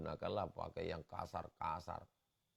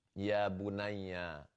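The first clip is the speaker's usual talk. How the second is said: tender call; much slower than usual. Shown as a demonstration. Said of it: "nggak usah lebay juga".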